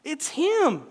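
high, loud insistence; acted desperate emphasis; insistent outcry. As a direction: push it at her with urgency. Husband insists in story.

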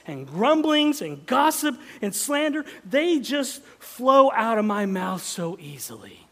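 rousing sermon climax; loud preaching. Real, not acted. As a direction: build to a ringing shout.

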